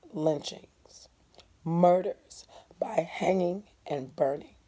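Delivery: hushed, slow whisper; teacher hushing for the horror. Real, not acted. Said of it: "teacher drops to whisper".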